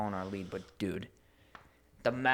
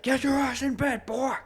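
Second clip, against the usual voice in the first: much higher, louder bossy cat; cat ordering its owner to bed, high and loud; 13 semitones higher, 6 dB louder than usual. Retold or imitated. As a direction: squeal it like a demanding cat. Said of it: "He was like".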